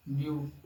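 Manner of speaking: ब्यूटीफुल with very long gaps between ब्यू, टी and फुल; separated syllables. Shown as a demonstration. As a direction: dictate ब्यूटीफुल one piece at a time. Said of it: "separate करके समझाने के लिए". (ब्यूटीफुल को लंबे ठहराव के साथ टुकड़ों में बोलें)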